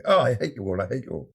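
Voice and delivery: sudden peevish outburst, fading to a grumble; mock indignant. Composer leaving the jeering audience, mock indignant. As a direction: burst out, then grumble it, play-acting. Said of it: "simultaneously trying to be indignant".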